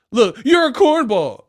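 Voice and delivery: lightly voiced mock heckler; mocking fan. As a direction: toss it like a sneering fan.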